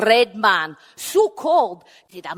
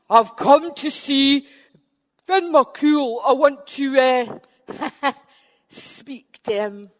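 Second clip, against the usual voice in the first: slow giant demand; 3 semitones higher, 4 dB louder, slower than usual. Acted. Benandonner at the door.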